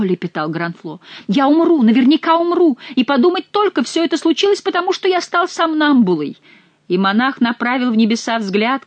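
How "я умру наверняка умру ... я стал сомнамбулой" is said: high, loud despairing wail; terrified lament. A narrator's reading. Frightened monk wails to Chicot, high and loud.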